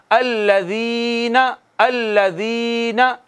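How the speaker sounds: slow, drawn-out chanted recitation; Quran recitation. Shown as a demonstration. Teacher reciting the verse for students, slow chanted recitation. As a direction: recite each word slowly, stretching the vowels. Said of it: "teacher recites for students".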